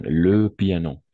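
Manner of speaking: Le piano slow and loud, each syllable clear; slow, loud model. Shown as a demonstration. Teacher repeats Le piano slowly and loudly to the class. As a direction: spell out Le piano slowly and firmly. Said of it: "Très bien".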